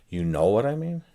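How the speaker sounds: "I" stressed and lifted. Shown as a demonstration. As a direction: hit the word "I" in "You know what I mean?". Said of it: "I change the meaning subtly by changing the emphasis".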